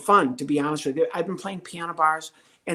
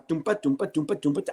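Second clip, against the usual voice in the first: vamp imitation. Shown as a demonstration. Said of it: "I play the".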